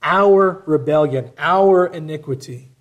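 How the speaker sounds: Our drawn out and weighted, slowly; stress on Our. Shown as a demonstration. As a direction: lean hard and long on "Our". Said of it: "You notice the language in this too".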